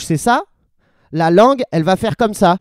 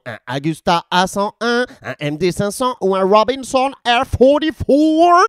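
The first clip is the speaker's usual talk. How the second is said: nitpicking question. Acted. Interrupter asking which helicopter model exactly, insistent. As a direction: list the models with rising pitch.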